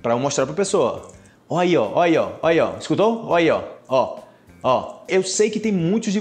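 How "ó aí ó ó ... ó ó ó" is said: pointing out the noise. Pretend. Showing a friend the strange noise in the car, eager. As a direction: catch the sound and point at it. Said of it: "mostrando pra alguém um problema".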